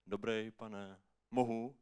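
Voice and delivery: a hint of a polite, tentative beggar; homeless man begging. Homeless man approaches a passer-by, lightly voiced begging.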